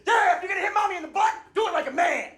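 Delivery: put-on child piping up at high pitch; youngest child. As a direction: yell it like a bossy little kid. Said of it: "my youngest pops out from behind the couch".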